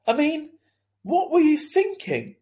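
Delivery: high, loud mom voice, scolding. A narrator's reading. Mother scolding son for punching Julian, loud and high. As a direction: raise your voice at your son in disbelief. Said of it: "raising her voice".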